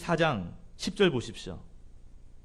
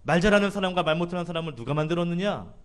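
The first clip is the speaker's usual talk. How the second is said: rebuke; 4 semitones higher, 4 dB louder than usual. Retold or imitated. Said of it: "하나님께서 책망하시죠".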